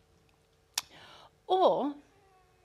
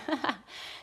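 short, soft mock laugh; imitated chuckle; 3 semitones higher, 5 dB quieter than usual. Busy listener privately laughing off the Sabbath idea, mock chuckle. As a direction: give a little put-on chuckle. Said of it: "Had a little bit of a laugh going".

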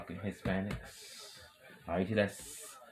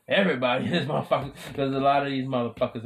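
hyped shout; 4 semitones higher, 6 dB louder, faster than usual. Real, not acted.

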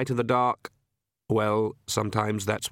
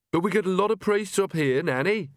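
put-on young woman, higher pitched; Agnes's voice; 8 semitones higher than usual. Agnes reasoning with Nanny while hurrying, young and patient. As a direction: speak as a young, reasonable witch.

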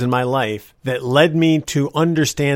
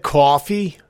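New Jersey accent; 3 semitones higher, 3 dB louder than usual. Shown as a demonstration. Storyteller shows the accent mom forbade, New Jersey accent on "coffee". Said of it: "never picked up the New Jersey accent".

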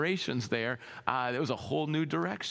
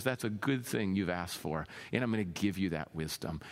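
God's low reply; 9 semitones lower, 4 dB quieter than usual. Retold or imitated. God voiced answering Solomon.

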